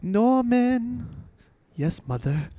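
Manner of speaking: lightly voiced mother-and-son exchange; Norman and mother. Quoting a messed-up son and mother, lightly acted. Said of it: "Norman's fucked up though in the head".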